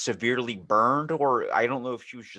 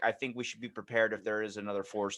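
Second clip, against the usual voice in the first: Reagan impression; 2 semitones lower, 7 dB quieter than usual. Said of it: "That was really good impression".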